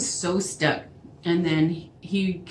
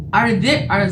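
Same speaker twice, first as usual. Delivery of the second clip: louder, higher indignant outburst; raised-voice accusing start, cut short; retold yelling; 4 semitones higher, 7 dB louder than usual. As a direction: re-enact yelling down the phone. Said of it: "I yelled at him".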